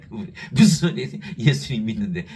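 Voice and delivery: a loud, offended protest from the widow; indignant loud retort. Retold or imitated. Preacher acting the widow answering him, a loud indignant retort. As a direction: fire back loudly, offended. Grieving wife protests loudly.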